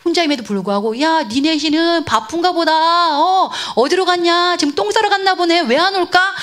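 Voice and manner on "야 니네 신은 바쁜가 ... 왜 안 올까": high, teasing taunt; mocking. Elijah jeering at hundreds of Baal prophets, mocking. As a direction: needle them with pretend wondering, pitched up. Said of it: "조롱하고 있는 장면이".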